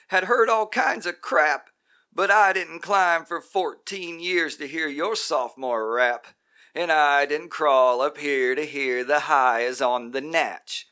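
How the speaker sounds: high, loud, furious rant; raging tirade. Acted. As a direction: shout every hardship in his face. Roy rages at the guru.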